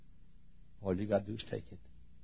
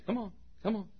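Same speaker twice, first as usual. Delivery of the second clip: soft, higher-pitched beckoning; coaxing; 9 semitones higher, 9 dB quieter, faster than usual. Acted. God calling the fish over, softly coaxing. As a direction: coax a small creature closer.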